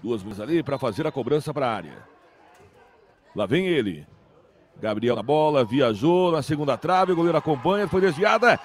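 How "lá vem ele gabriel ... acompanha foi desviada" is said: building football commentary; rising excitement toward the shot; live play-by-play. Real, not acted. (narração de futebol crescendo)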